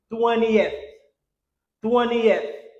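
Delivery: "twentieth" as "TWEN-ee-eth", falling; correct three-syllable twentieth. Shown as a demonstration. Teacher corrects the learners' error, "twentieth" as "TWEN-ee-eth". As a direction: sound every syllable of "twentieth", "ee-eth" last. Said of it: "Comment on dit?".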